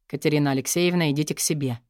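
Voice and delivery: low, calm, quick dismissal. Acted. Boss calmly sending his secretary away, low and even. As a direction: send her off evenly. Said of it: "спокойно обратился к ней босс".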